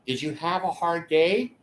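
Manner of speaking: wife voice. Retold or imitated. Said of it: "Betty is gonna say".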